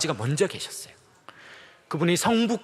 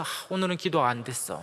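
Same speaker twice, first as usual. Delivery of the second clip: mild disappointment; 4 semitones lower, 7 dB quieter than usual. Retold or imitated. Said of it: "이렇게 얘기하시는 분".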